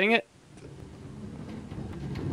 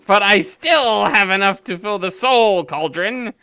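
put-on old man voice. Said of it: "I'm assuming this is old man voice".

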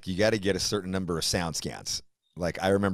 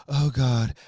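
high, whiny mock plea for sympathy; mocking attention-seeker; 8 semitones higher than usual. Mocking the attention-seekers he can't stand, in a high whiny voice. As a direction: parody a friend fishing for pity online. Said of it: "Facebook phishing".

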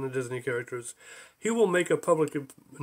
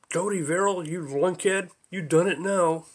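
calling out; 3 semitones higher, 3 dB louder than usual. Acted. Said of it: "a voice called out".

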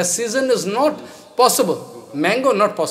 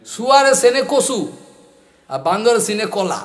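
rapid rustic Bangladeshi Bengali, rattled off; crude Bangladeshi Bengali; 2 semitones higher, much faster than usual. Retold or imitated. Teacher quotes a Bangladeshi man's crude Bengali proverb, rapid. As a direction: rush the Bangladeshi Bengali proverb, a bit raised. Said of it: "It's crude language, Bengali".

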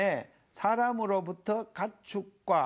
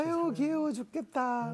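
doting grandfather cooing, higher pitch; умиление дедушки; 8 semitones higher than usual. Acted. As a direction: gush over a toddling grandchild. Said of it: "손자가 이렇게 아장아장 기어다닐 때 할아버지".

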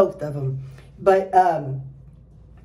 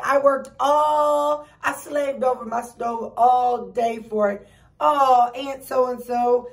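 sweet aunt voice; 4 semitones higher than usual. Retold or imitated. Aunt offering pie, polite refusal.

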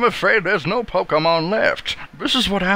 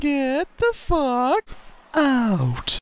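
higher, slow deadpan threat; slow angry order; 7 semitones higher, much slower than usual. Acted. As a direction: spell out the eviction. Mom repeats, slowly.

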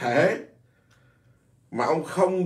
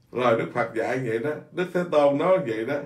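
humble quote; faster than usual. Retold or imitated. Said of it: "lúc nào ông nói".

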